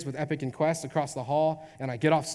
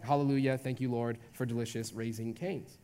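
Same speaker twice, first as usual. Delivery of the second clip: mock-reverent prayer, lower and softer toward the end; prayer of thanks; 4 semitones lower, 5 dB quieter than usual. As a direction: say a hushed little thank-you prayer. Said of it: "I lift up a prayer".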